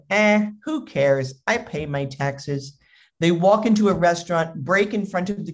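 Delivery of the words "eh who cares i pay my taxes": slow, careless shrug; acted indifference; dismissive husband. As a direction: imitate an entitled man brushing it off. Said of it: "And he's like".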